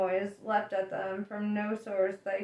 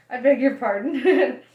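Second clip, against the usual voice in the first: polite question; 3 semitones higher, 10 dB louder than usual. Acted. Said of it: "asked Arthur, rather politely".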